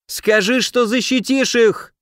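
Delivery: high shriek, slowed and pleading. Acted. The cornered merchant shrieks his demand at the hero. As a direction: squeal it out in panic. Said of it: "взвизгнул Ислав".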